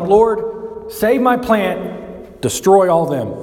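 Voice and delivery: high, drawn-out pleading as Jonah; hammed-up plea, stretching "save my plant"; mock whiny Jonah. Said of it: "And he's like".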